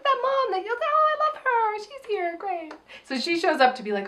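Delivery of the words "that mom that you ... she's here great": high, gushing excited mom voice. Retold or imitated. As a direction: gush like an overeager mom. Voicing the film mom.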